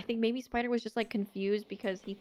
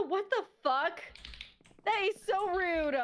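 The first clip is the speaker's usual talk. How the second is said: offended surprise; 8 semitones higher than usual. Real, not acted. Insulted by a joking remark.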